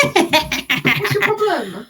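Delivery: amused, slow, drawn-out challenge; laughing challenge. Acted. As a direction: drawl it out through a laugh. Character confronting with a laugh.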